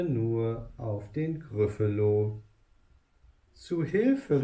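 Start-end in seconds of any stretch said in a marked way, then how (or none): 3.5-4.4 höher gerufen, ängstlich; Hilferuf. Acted. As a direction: ruf panisch um Hilfe. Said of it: "rief er". (Fuchs ruft ängstlich)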